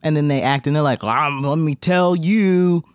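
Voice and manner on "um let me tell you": a lightly voiced fake drunk, slow; mock actor playing drunk. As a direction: slur it slowly like a bad stage drunk. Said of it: "actors pretend to be drunk".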